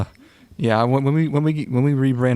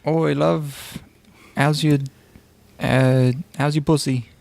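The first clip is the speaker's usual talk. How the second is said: crude British lad; 3 semitones higher than usual. Retold or imitated. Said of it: "in Great Britain".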